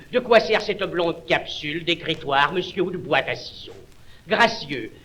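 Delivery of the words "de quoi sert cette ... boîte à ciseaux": quick, curious questioning. Acted. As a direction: ask it with mock curiosity.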